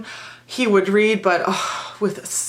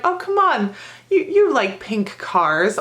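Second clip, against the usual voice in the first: high, slow mock-incredulous tease; playful teasing; 4 semitones higher than usual. Teacher teasing a young boy about pink cars, mock incredulous. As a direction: pretend to believe he loves pink cars.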